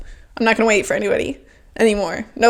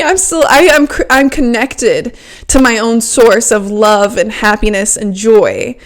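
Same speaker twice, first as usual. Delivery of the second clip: upbeat self-affirmation. Retold or imitated. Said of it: "I was like".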